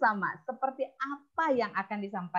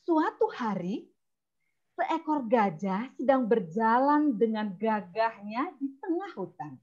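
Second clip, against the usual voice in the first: narrator voice. Shown as a demonstration. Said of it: "suara narator".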